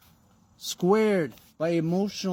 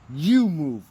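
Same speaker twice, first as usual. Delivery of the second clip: louder, punched "you move"; defiant retort; 6 dB louder than usual. Pretend. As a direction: throw it back at him. Defiant reply to the devil.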